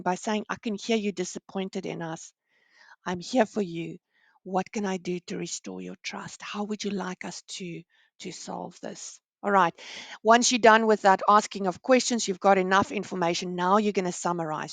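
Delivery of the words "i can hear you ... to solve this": empathizing reply. Shown as a demonstration. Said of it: "you've calmed the client down by empathizing".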